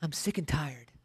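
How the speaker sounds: a mock tired groan; weary complainer. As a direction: drag it out like a worn-out Southerner. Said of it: "It's easy for you to say".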